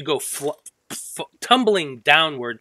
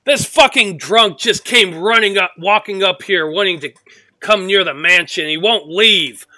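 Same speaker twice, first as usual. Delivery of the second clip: louder, higher exasperated complaint; annoyed bowman; 6 semitones higher, 7 dB louder than usual. Acted. Bowman complaining to the spearman, loud and exasperated. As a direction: vent at the drunk to your partner. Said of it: "the bowman is like".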